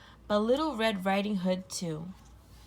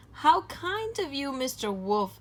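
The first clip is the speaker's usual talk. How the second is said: put-on little girl voice; 6 semitones higher than usual. Girl thanks the wolf.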